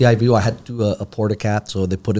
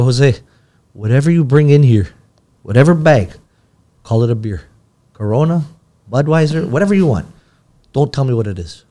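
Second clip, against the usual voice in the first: raised, higher voice calling down the hall; calling out to Jose; 4 semitones higher, 5 dB louder than usual. Retold or imitated. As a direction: call out to the nurse passing the door, half joking. Calling out to nurse passing by.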